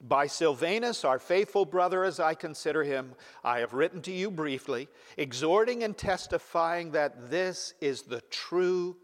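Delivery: scripture reading. Acted. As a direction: read the verse to the congregation with weight. Reads First Peter aloud.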